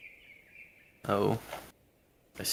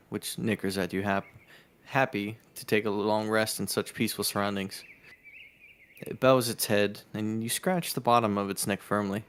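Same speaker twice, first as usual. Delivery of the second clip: measured storyteller reading; game master's descriptive read; game story narration; 5 dB louder than usual. A narrator's reading. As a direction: narrate the scene evenly to the players. Reads the game's scene aloud.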